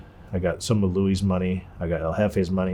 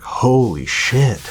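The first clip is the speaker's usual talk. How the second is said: slow, breathless whisper of disbelief; stunned whisper; 3 semitones higher, 3 dB louder, much slower than usual. Retold or imitated. Seeing a suitcase of a million dollars, awed whisper. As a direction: let it out under your breath, awestruck.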